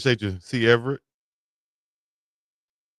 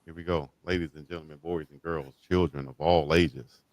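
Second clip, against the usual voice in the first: ringmaster; 7 semitones lower, 5 dB quieter than usual. Pretend. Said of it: "Gonna have a party, y'all".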